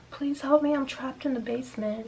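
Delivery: high, contained cry for help; imitated screaming plea. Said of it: "she was screaming".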